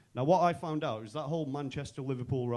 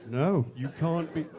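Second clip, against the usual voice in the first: appalled colleagues; slower than usual. Retold or imitated.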